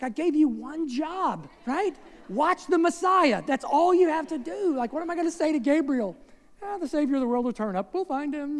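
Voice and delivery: mock-scolding a husband who lost the child; Mary scolding Joseph. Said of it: "She's like".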